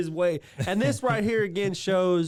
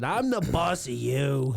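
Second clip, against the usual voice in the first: Wichert voice; 2 semitones lower than usual. Retold or imitated. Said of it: "I like how he says it".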